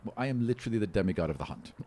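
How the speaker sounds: exasperated boast. Acted. Harold insists, exasperated.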